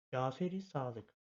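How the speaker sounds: Caferi Sadık drawn out slowly, each syllable clear; teacher reads the name slowly for the class; slow model reading. Shown as a demonstration. Öğretmen adı yavaşça okuyor. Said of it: "tekrardan okuyalım".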